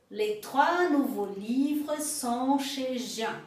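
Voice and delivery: slow, careful French for repeating; slow model sentence. Shown as a demonstration. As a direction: say each word slowly and clearly. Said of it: "Uma outra frase". (devagar, para repetir)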